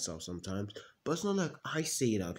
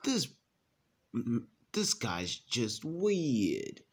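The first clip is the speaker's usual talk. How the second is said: judging aside; 3 semitones higher, much slower than usual. Retold or imitated. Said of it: "and I'm like".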